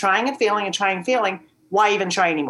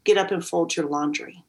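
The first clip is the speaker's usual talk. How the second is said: voice of God; 4 semitones lower, 3 dB quieter than usual. Retold or imitated. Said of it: "And he said".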